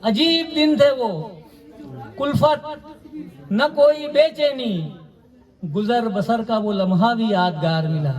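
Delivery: poetry recitation. Acted. Poet repeating each line for mushaira listeners, deliberate recitation. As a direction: recite verse with measured, deliberate phrasing.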